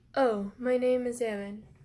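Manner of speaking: deep, low-pitched voice. Retelling a character giving his name to a girl: deep voice. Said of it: "because it was a deep voice".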